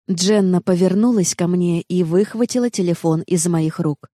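plain reading voice

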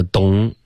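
vowel collapsed into "咚"; mispronounced as dong. Shown as a demonstration. Teacher copying a student's mistake, vowel collapsed. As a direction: say a Chinese-style "咚" with no glide. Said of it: "发成了咚".

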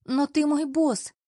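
high, loud, slow protest on "ты"; dismayed wail. A narrator's reading. Girlfriend protesting to her lover, high and loud.

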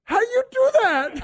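high squeaky mock mutter under the breath; lightly voiced Emmitt Smith muttering; imitating a muttered aside. Retelling Emmitt Smith's aside, high mock mutter. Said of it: "he just mutters under his breath".

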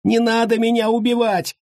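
terrified screeching captive; shrieking plea. A narrator's reading. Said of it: "заверещал Уйбуй".

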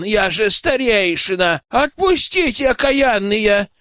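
a high, wailing protest; outraged wail. Acted. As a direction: demand release with a drawn-out cry. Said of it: "вопил он".

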